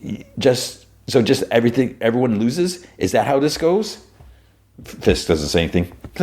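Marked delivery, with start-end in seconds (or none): 0.0-4.1 high-pitched character voice, questioning; Mister Charles. Retold or imitated. Caller confronts silent Fisk, high put-on voice. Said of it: "I had a, a voice for Mister Charles".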